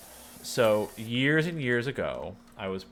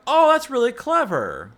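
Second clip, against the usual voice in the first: much higher and louder, delighted laughing quote; amused laugh; 11 semitones higher, 11 dB louder than usual. Retold or imitated. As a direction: squeal it out, tickled by the joke. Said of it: "And I'm like".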